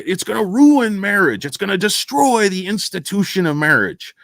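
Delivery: high-pitched mock outrage; mocking alarmists. Streamer mimics opponents of gay marriage, high mock alarm. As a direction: parody the panic, pitched well up. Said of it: "they say".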